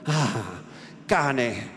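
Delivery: angry. Acted. Renzo erupts at the news.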